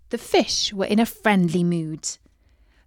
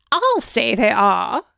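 lightly voiced wicked queen, slow; a hint of a haughty queen; 4 dB louder than usual. A narrator's reading. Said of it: "said the wicked queen".

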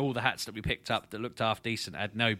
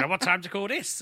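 mock chastising; 8 semitones higher than usual. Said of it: "ready to chastise me".

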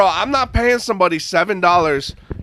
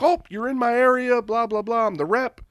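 imitating sales rep; 8 semitones higher than usual.

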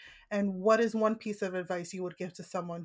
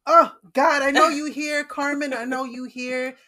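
emotional outcry; 5 semitones higher, 10 dB louder than usual. Real, not acted. Addressing late mother emotionally.

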